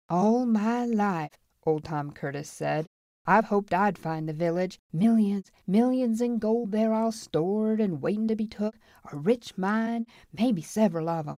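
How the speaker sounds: put-on wistful old man dreaming of gold; old prospector. Old Tom tells the saloon his dream, wistful.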